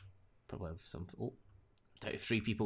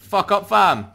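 high loud outburst; frustrated yell; 12 semitones higher, 23 dB louder, much slower than usual. Real, not acted. Gamer raging at an enemy who escaped, yelling. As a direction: explode at the screen.

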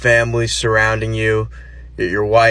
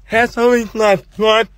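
put-on higher, puzzled kid voice; confused son; 8 semitones higher than usual. Son backing out of the room, voiced higher and confused. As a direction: play the son, lost and baffled. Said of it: "Your son's like".

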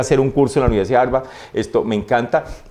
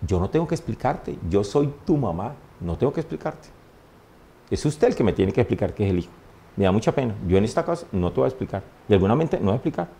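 soft, firm mother laying down the law; stern mother; 3 semitones lower, 6 dB quieter than usual. Retold or imitated. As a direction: quietly refuse to explain, a mother's final word. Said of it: "Decía mi mamá".

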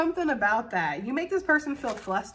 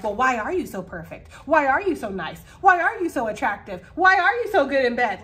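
building accusing questions, louder each time; mock accusatory; 2 semitones higher, 5 dB louder than usual. Mimicking a suspicious partner who keeps accusing the lover. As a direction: pile on the accusations. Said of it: "be accusatory".

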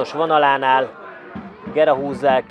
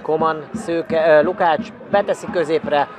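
usual speaking voice

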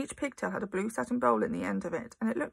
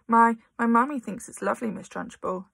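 frightened stammer, louder; stuttering; 2 semitones higher, 5 dB louder than usual. Acted. Amanda stammering back at Trunchbull, mildly frightened. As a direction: beg in terror. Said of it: "Amanda stuttered".

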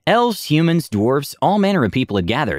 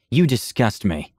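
silky voice; slower than usual. Retold or imitated. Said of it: "with that same silky voice".

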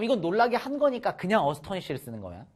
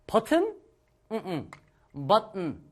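mock puzzled friend; 2 semitones higher, slower than usual. Mocking friend told his button's undone, puzzled. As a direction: play the friend caught off guard. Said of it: "야, 너 버튼".

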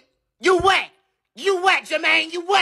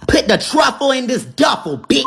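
robbery threat; 5 semitones higher, 6 dB louder than usual. Acted. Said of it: "sound like we reading out of a kid book".

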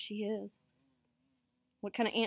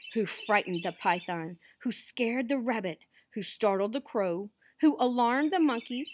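king laying out a chain of blame; storytelling recap; 3 dB louder than usual. A narrator's reading. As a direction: cumulative tale, emphatic then settling. Reads the cumulative recap.

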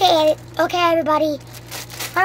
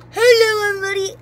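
high squeaky helium imitation; imitated helium voice; 4 semitones higher, 5 dB louder, faster than usual. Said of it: "it lasts for, like, two seconds".

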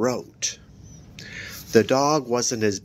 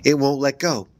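shrill cry; 5 semitones higher, 4 dB louder than usual. Acted. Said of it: "Evan cried shrilly".

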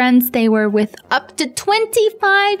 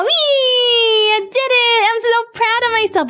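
excited cheer; 6 semitones higher than usual. Real, not acted. Celebrates solving the puzzle.

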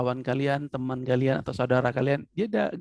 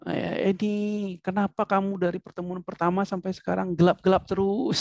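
higher, animated teasing question; expressive; 5 semitones higher than usual. Shown as a demonstration. Teacher shows students what expression is, expressive. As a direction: ask it with lively intonation. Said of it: "Itu kan Bapak tahu ekspresi itu".

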